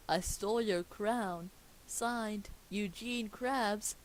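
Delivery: dramatic reading. Acted. Reading the signed note.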